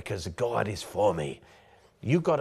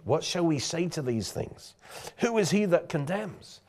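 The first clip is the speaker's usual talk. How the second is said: high, raised and defiant; bold; 6 semitones higher than usual. Shown as a demonstration. Preacher shows the church how to answer boldly. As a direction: throw the question out boldly. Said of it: "That's boldness".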